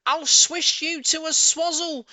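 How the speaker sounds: high, loud, slow raging yell; furious shout. Acted. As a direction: spit each word in fury. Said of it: "she shouted".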